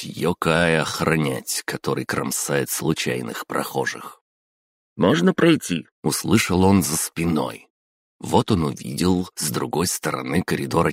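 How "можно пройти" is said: high voice. Acted. Voice heard behind guard.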